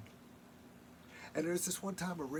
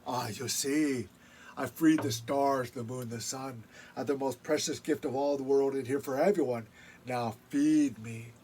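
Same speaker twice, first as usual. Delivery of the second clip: upset Raven; 3 dB louder than usual. Acted. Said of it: "this made Raven upset".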